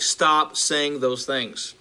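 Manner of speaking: slow, deliberate mock-hostile demand; irritated churchgoer ordering the preacher to stop, half-acted; aggressive words. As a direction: drag each word out like a mildly acted warning. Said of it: "very aggressive words like".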